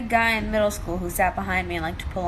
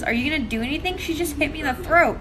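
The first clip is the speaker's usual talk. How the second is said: put-on whiny kid; 6 semitones higher than usual. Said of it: "looks at my teacher and goes".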